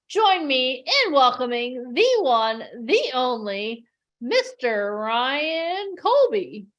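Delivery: slow drawn-out announcer intro. Acted. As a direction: stretch the name like a ring announcer. Host announcing guest.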